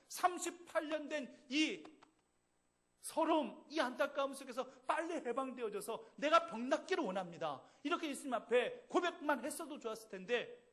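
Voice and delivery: loud, high, driving sermon delivery; full-force Korean pulpit preaching; fiery preaching. Acted. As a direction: preach it hard to the congregation.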